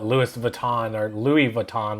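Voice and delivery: "Louis Vuitton or Louis Vuitton" in anglicized versions, first Lewis, then Louie; mispronunciation demo. Shown as a demonstration. YouTuber mimicking how some people say the brand, mispronunciation demo. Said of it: "They don't call it".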